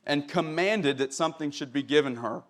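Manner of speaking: steady Bible reading to the congregation; scripture reading. Acted. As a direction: read the King James text with reverence. Reads scripture aloud.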